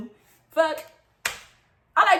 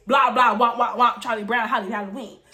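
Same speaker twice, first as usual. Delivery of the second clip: mock someone's talk as noise; mocking gibberish; 2 semitones lower than usual. Teller tells rival all they heard, mocking. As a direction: imitate meaningless chatter dismissively. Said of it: "all I heard you say is".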